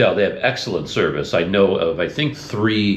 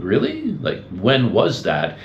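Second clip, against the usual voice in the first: surprised clerk; 3 semitones higher, slower than usual. Retold or imitated. Front desk clerk's surprised reply.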